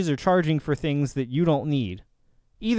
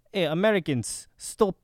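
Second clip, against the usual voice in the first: slipping into a mock Russian accent, lightly; a half-hearted Russian accent telling Americans to stop; 4 semitones higher than usual. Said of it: "why am I doing a Russian accent?".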